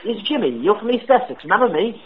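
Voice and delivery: a prank caller faking British; put-on British accent. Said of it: "Sorry if my accent was in and out".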